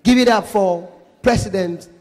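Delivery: spaced-out MC introduction; stage announcer. Shown as a demonstration. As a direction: announce the star with pauses for suspense. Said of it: "how you go feel if you just say".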